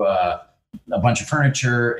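ordinary talk

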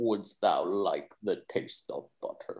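low, hushed goat voice. Describing the goat who asks the girl a question, do a Black Philip goat voice. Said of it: "and I love doing this voice".

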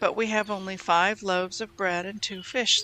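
ordinary delivery, nothing marked

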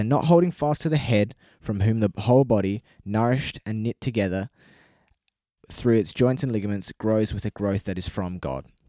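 plain

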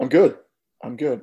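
husky, hoarse, rough-edged voice. Answering a co-host's greeting, hoarse voice. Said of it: "sorry about my voice".

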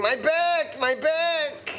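mock, very high, long, drawn-out screaming cry. Retelling how she fell and then started screaming, retelling her screaming. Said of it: "she starts screaming".

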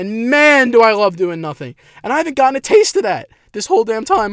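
emotional, choked-up voice, high, cracking mid-line. Venting alone in a car about never getting a break, emotional, voice cracking. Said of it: "I'm having a voice crack".

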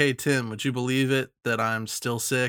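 ordinary delivery

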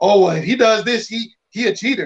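ordinary delivery

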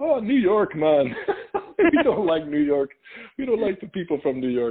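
full put-on, high-pitched Jamaican accent. Retelling a conversation with a man, in a full Jamaican accent. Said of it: "It's the full Jamaican accent".

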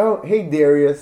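very loud, high-pitched put-on girly voice. Speaker explains how people say his name, imitating a blonde-haired American girl. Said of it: "every blonde haired girl says".

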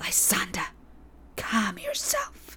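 put-on thin, shrill childlike voice in a whisper. Narrating a story, a sylph speaks to Lysander: thin childlike shrill whisper. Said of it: "A thin, childlike voice speaks in a shrill whisper".

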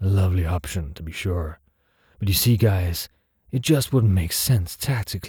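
gravelly, gruff, overconfident menacing delivery. A speaker taunts the guards, gravelled, gruff and overly confident. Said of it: "A gravelled, gruff, and overly confident in its threat, voice. ... A gravelled, gruff".

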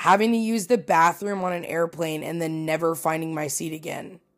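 ordinary delivery

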